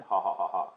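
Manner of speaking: spoken ha-ha stepping downwards; low, falling joke laugh; mock laugh. Reader explains the pun to listeners, mock laughing.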